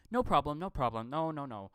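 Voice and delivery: light mock Indian accent. Imitating an agreeable Indian English speaker, light Indian accent. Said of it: "Indian accent is".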